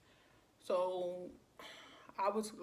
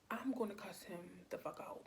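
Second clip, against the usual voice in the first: hushed, whispery retold threat; muttered threat; 7 dB quieter than usual. Wanting to cuss out a caller, hushed threat. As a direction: mutter it softly under your breath.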